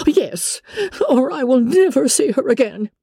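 high, huffy matron's threat; indignant mother. Acted. Mother threatening never to see her daughter again, indignant. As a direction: pitch it high in agitated insistence.

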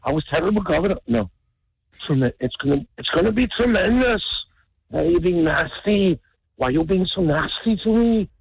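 a lightly voiced Arnold trying on Trump; half-hearted Austrian-tinged Trump impression, close to his own voice; Schwarzenegger doing Trump. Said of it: "Arnold Schwarzenegger trying to do an impression of Donald Trump".

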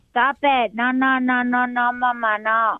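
put-on high-pitched whining little-kid refusal; imitated protesting daughter. Daughter interrupting mom's bedtime story voices, high protesting child. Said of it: "and she goes".

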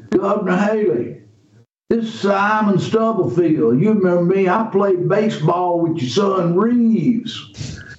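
a hint of a reassuring local man crawling close; rural Mississippi man. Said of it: "and he says".

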